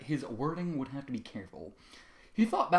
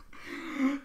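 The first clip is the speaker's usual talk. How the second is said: laugh; 13 semitones higher than usual. Acted. Sudden laugh at the twist.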